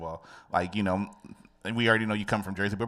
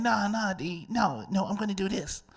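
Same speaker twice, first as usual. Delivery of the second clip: put-on nasal New York accent; 10 semitones higher than usual. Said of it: "a nasally New York accent".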